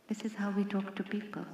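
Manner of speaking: soft unvoiced whisper. Shown as a demonstration. Speaker repeats the line to the audience in a whisper. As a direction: breathe it as a hushed aside. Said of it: "said first aloud, then again".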